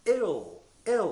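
"L" held with the tongue on the ridge; "L" said as a clear lateral, no vowel; L sound demo. Shown as a demonstration. Teacher isolating the final L of drill. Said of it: "Lの音を出します".

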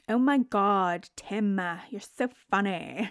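half-hearted imitation of a gushing girlfriend; Sarah's gushing accent. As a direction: lightly imitate her fake giggly flattery. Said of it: "I can't do her accent".

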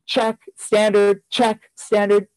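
slow, measured checklist; ticking off. Retold or imitated. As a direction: say each item separately, as if marking a list. Mimics ticking off notes in gradebook.

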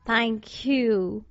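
mildly grateful, understated thanks. A narrator's reading. Scarecrow thanking the girl for her offer, gratefully. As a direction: give thanks with a touch of gratitude. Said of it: "he answered gratefully".

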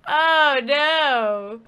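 dread. Acted. Narrator reacts to creepy twist.

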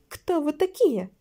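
slow, high, loud demand; shouted challenge. A narrator's reading. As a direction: call out the question, drawn out. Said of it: "крикнула Кра".

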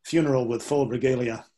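whispered aside; hushed, breathy aside. Real, not acted. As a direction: drop to a whisper for the punchline.

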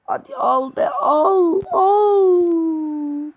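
high, slow, strained plea; anguished cry; desperate pleading. Real, not acted. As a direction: beg the player to get the ball, voice cracking.

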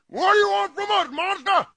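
defiant yell. Acted. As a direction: shout at a giant beast. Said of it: "And I yelled".

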